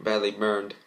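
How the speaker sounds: ordinary delivery, nothing marked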